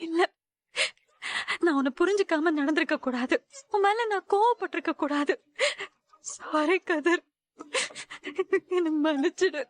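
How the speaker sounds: apologising through gentle tears; a teary, broken sorry; crying apology. Acted. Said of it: "எதுக்கு இப்ப அழுவுற?".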